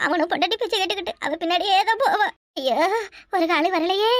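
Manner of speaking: theatrical wailing. Acted. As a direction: wail in self-pity, stretching the line ends. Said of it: "கிழவி காலையிலே கத்திக்கிட்டு கிடக்கு". (ஒப்பாரி வைத்து புலம்பும் குரல்)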